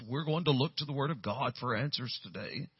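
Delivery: lightly put-on pastor's voice; a hint of solemn, measured pastor; pastoral voice. Young pastor covering for having no clue, mock pastoral voice. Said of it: "in my pastoral voice".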